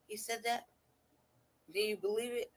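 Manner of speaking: high imitation of his question; mock incredulity. Host retelling the man's reply, mock incredulous. Mimicking the comeback once more.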